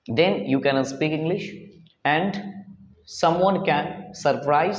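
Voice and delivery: slow, deliberate formal English; measured English address to the class; formal speech. Acted. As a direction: speak like an orator, slowly.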